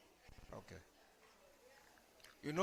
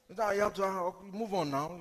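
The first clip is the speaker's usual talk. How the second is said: pushy onlookers; 5 semitones higher than usual. Retold or imitated. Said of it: "People always want to rush you".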